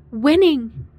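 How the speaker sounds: gleeful, high victory cry; triumphant shout. Acted. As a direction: crow it out in triumph. Triumphant cry after laugh.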